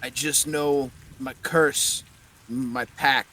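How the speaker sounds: loud hammed-up Russian accent, fading at the end. GM voices the skull in a joking Russian accent. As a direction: bark it in a mock Russian accent. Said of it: "I'm doing a Russian accent now".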